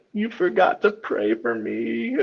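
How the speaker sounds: put-on high, slow, laughing toddler voice; dad mimicking his son's tiny bedtime complaint; little kid voice. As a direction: squeak it out like a small boy, giggling. Dad imitating toddler's plea.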